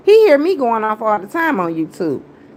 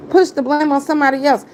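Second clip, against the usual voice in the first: mocking repeat; 6 semitones higher, faster than usual. Real, not acted. Mocking her enemy's accusation.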